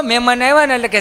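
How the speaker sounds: ordinary talk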